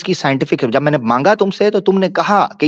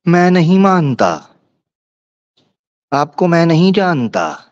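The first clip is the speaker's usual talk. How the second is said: mocking quote; slower than usual. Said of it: "आकर कहता है".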